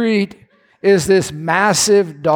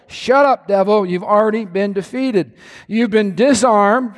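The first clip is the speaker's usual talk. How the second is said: firm rebuke. Acted. Rebuking the devil.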